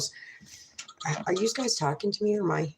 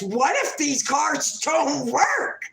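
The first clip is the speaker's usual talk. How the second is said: inner doubt voice; 6 semitones higher, slower than usual. Retold or imitated. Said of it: "And then I got this".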